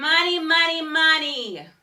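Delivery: loud ringing, projecting voice. A voice teacher demonstrating a resonance exercise, in a resonant carrying voice. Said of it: "you'll hear your voice fly across the room".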